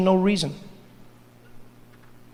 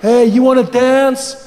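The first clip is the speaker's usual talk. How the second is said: loud, drawn-out creepy come-on; hammed-up sleazy pickup voice; creepy guy; 4 dB louder, much slower than usual. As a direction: imitate a pushy creep at a bar. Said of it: "That creepy guy comes up".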